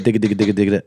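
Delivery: quick rolled digga digga sounds. Shown as a demonstration. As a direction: rattle off digga digga like a duck call. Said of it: "That, that was what I did".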